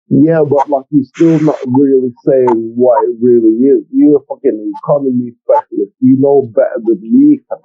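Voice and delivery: muffled speech; talking through a covered mouth; hand over mouth. Real, not acted. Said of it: "You sound mad muffled".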